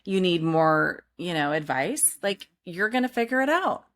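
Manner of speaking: calm yourself down gently; reassuring self-talk. Retold or imitated. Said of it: "I'll be like".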